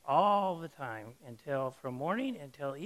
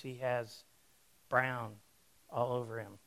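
ordinary talk, nothing marked

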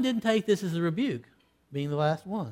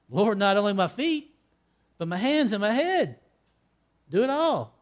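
louder, higher, rising with eagerness; eager plea; 5 semitones higher, 4 dB louder than usual. Retold or imitated. Peter pleading with Jesus to wash him wholly, eager and rising. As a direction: beg for everything to be washed. Peter surrenders, begging full washing.

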